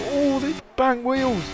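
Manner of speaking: high, drawn-out excited cry; excited shout. Real, not acted. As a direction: gasp it out as they collide. Wheel-to-wheel contact.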